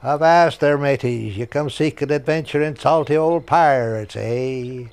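a hint of a salty old pirate, loud on the greeting; lightly voiced pirate barker. Recording the ride's ramp warning, lightly played pirate voice. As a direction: hail the riders like a mild old sea dog. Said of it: "I recorded the".

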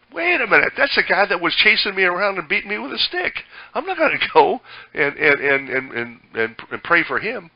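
high, loud outraged disbelief; indignant protest. Retold or imitated. Believer told to pray for Paul, protesting loudly. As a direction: balk at going to pray for his persecutor. Preacher voices reluctant believer.

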